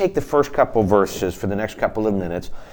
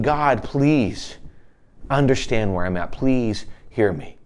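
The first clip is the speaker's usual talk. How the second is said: pleading; slower than usual. Retold or imitated. Preacher voicing David on his knees before God, understated pleading. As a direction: plead gently, with pauses between the phrases. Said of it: "he's just pleading".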